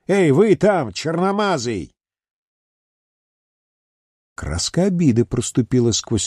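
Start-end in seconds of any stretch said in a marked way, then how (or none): 0.1-1.9 calling out rudely. Acted. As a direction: yell down at him. Heroine shouts at the Mexican. (грубый окрик)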